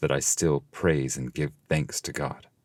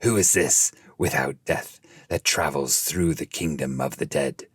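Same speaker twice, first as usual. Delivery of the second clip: angry. Acted. Crowd at the gate challenges the living man, angrily. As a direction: demand it, a touch heated. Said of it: "saying quite angrily".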